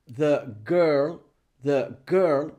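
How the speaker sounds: put-on "the girl" with "the" as a short thuh; weak "the". Shown as a demonstration. Teacher models article before a consonant, schwa thuh. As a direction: keep "the" light, land on "girl". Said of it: "Es the".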